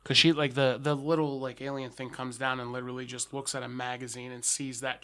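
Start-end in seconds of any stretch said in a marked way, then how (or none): none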